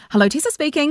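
high-pitched put-on phone greeting; telephone voice. Shown as a demonstration. Demonstrating how people answer calls, telephone voice. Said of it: "it's like your telephone voice".

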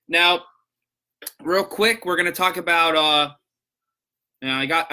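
talking while chewing gum. Real, not acted. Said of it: "I got gum in my mouth".

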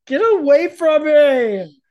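loud, sharp, slow. Real, not acted. Shouting at pestering kid.

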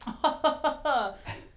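a burst of high laughter; amused laugh. Real, not acted. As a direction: laugh out high before the quote. Recounting funny slapstick scene.

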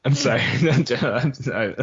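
apologizing through laughter; cracking up mid-line. Real, not acted. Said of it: "I'm laughing at my own joke".

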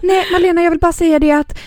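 high-pitched start, settling into an insistent warning; mother's warning. Retold or imitated. Mother phoning daughter about a fire, mildly urgent warning.

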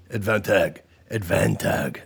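"Advantag" ending in a hard g, like "tag"; missing-E pronunciation. Shown as a demonstration. Host defending his misspelling without the E, deliberate mispronunciation. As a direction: say "Advantag" with -tag in place of -tage. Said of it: "because I didn't put the E".

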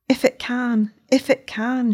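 lightly voiced anguished repetition; mild moan. Distressed woman pleading with Matheson, mild moan. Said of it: "she moaned".

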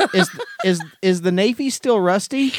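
high, giggling through the words; laughing. Real, not acted. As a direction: laugh while asking it. Cracking up at the joke.

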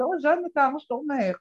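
put-on greeting in a light Moroccan accent; a hint of Moroccan Hebrew accent; elderly Moroccan woman greeting the lecturer, Moroccan accent. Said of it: "במבטא מרוקאי כזה".

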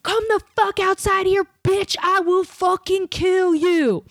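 high, slow screeched threat, hammed-up; mock threat. Comic imitates girl screaming from outside, high mock shriek. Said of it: "And the girl goes".

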